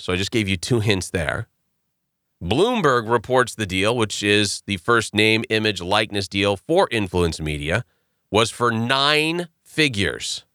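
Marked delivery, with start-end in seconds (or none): 2.4-10.4 sultry narrator. Pretend. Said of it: "Just listen to my sultry voice".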